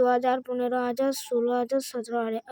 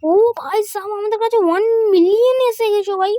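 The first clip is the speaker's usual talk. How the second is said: much higher and louder; excited; 8 semitones higher, 7 dB louder than usual. Real, not acted. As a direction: announce the million like a triumph. Announcing one million. (আনন্দে উঁচু গলায় ঘোষণা)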